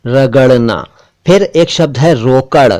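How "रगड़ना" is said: रगड़ना with the ड़ flapped, not a plain d; correct flap. Shown as a demonstration. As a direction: flick the tongue on रगड़ना. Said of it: "इसी से बना रगड़ना".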